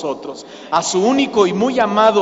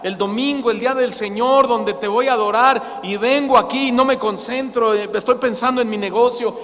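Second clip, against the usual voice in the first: confessing prayer; 2 semitones higher than usual. Acted. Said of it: "le grita a Dios".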